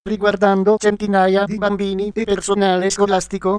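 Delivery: text-to-speech voice reading the news; even, computer-read news report; synthetic news voice. Real, not acted. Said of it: "sintesi vocale Voce Viva".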